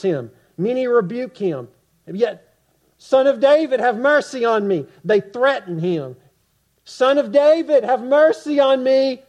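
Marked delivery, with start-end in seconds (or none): 3.0-4.9 loud, higher desperate plea; crying out. Acted. Bartimaeus was crying out. 6.8-9.2 loud, higher desperate plea; crying out. Acted. Bartimaeus was crying out.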